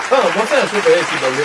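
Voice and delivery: même phrase, plus forte et appuyée; elle s'échauffe en le répétant; vieille maman qui s'emporte. Acted. Redit plus fort. (Thérèse répète plus fort, voix aiguë emportée)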